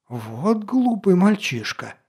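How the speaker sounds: high, slow indignant scolding; exasperated outburst. A narrator's reading. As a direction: scold him, flushed with anger. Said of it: "Лекарь побагровел".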